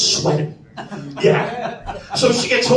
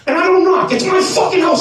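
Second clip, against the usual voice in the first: tag; 11 semitones higher than usual. Real, not acted. Indignant aside about not knocking.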